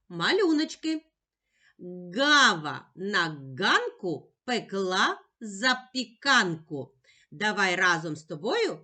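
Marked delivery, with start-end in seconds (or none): 2.1-6.9 slow, measured tongue twister; повільна скоромовка. Shown as a demonstration. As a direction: say it slowly, word by word. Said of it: "А тепер швидше". (повільно, розділяючи слова)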